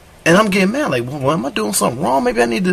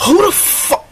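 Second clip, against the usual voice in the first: shocked squeak; slower than usual. Retold or imitated. Outraged disbelief at partner texting.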